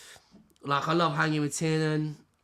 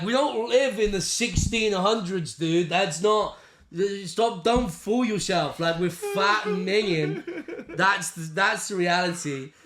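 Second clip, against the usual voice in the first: slow, higher, emphatic disbelief; mock exasperation; 3 semitones higher, slower than usual. Telling his mate they aren't attractive, exasperated. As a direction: drag out the words to knock down his delusion.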